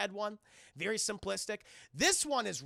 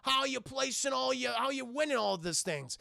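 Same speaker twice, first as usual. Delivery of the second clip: thug yelling; 5 semitones higher than usual. Retold or imitated. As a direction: bark it at him like hired muscle. And he goes (shout).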